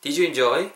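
"Did you enjoy?" linked as "di-ju in-joy", rising; "Did you enjoy?" with "did you" run together; model pronunciation. Shown as a demonstration. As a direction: repeat "Did you enjoy?" for learners, "did you" blended. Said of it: "한 번 더".

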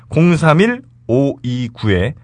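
slow, measured announcer read. Shown as a demonstration. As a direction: announce the number slowly. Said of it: "slow ad read of number".

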